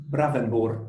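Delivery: "Bravenboer" modelled slowly the Dutch way; slow native Dutch "Bravenboer"; Dutch pronunciation. Shown as a demonstration. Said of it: "is it more the gut".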